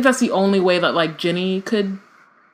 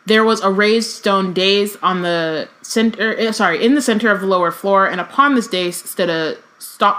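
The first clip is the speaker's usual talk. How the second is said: reading a novel aloud, even and measured; story narration. Acted. Reading Harry Potter aloud to a podcast co-host, narration voice. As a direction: read it like an audiobook chapter.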